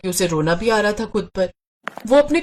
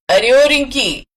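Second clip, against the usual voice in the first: louder call across the house; 3 semitones higher, 5 dB louder, slower than usual. Acted. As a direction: shout for her to come. Mother calls daughter from kitchen. (ज़ोर से आवाज़ देकर बुलाना)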